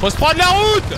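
"Faut se prendre la route!" called out high and loud. Real, not acted. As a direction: shout "la route" so the partner hears. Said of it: "Qu'est-ce que tu dis?".

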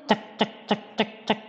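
soft clicking gecko call; tiny gecko chirp; gecko clicks. Shown as a demonstration. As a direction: click softly like a little gecko. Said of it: "Ana sing ngerti suarane cecak?".

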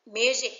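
"Music" with the beat on MU; first-syllable stress. Shown as a demonstration. Teacher reading answer choices to students, first-syllable stress on "Music". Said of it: "dấu nhấn ở phần đầu".

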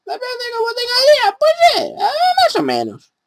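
very high whiny falsetto; squeaky falsetto. Pretend. Falsetto whining voice.

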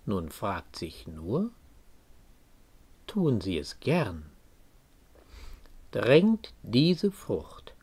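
slow, measured poetry reading with deliberate pauses; poem recitation. Acted. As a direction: recite the verse slowly, weighting key words. (getragener, langsamer Gedichtvortrag)

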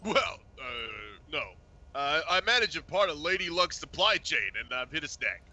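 Bozeman voice. Acted. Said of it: "Opti is the voice of Bozeman".

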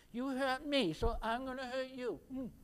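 put-on childish retort. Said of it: "just like a little three-year-old".

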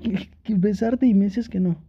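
a lover's mock sulk; playful pouty protest. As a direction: pretend to be offended, half smiling. Playful lovers' quarrel, teasing.

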